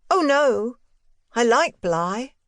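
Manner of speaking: put-on high boyish voice, quick to deny; a boy protesting lightly; boy Miles. A narrator's reading. Boy reassuring his governess, high and light.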